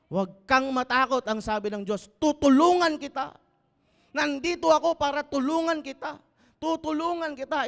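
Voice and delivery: high, loud reassurance; fervent preaching. Acted. Pastor assuring the congregation God will help, high and loud. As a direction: press the promise home.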